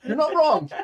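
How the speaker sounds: laughing agreement. Real, not acted. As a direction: laugh through the words. Laughing at beard joke.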